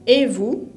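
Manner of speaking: "Et vous?" climbing sharply on "vous"; rising intonation. Shown as a demonstration. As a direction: ask "Et vous?" as a question, pitch rising. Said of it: "porque es una pregunta".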